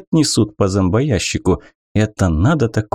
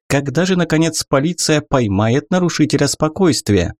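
excited reporter; 5 semitones higher than usual. Acted. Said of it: "взволнованным голосом поздоровалась корреспондент".

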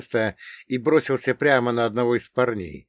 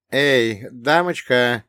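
brusque call to rouse someone; 5 dB louder, much slower than usual. Acted. Man nudging a sleeping girl awake, calling out. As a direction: call out a little louder.

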